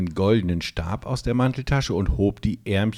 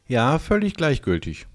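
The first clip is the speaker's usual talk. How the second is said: boastful; 6 semitones higher than usual. A narrator's reading. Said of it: "hörte sich ein wenig großspurig an".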